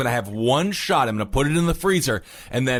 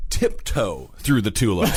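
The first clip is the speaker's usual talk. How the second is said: Singer impression; 6 semitones lower, slower than usual. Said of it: "Like the singer said".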